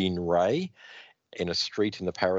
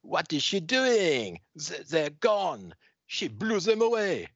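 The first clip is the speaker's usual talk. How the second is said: shrill, high frightened squeal; panicked crowd; 11 semitones higher, slower than usual. Acted. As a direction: squeal in terror like a scared bystander. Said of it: "the crowd is going".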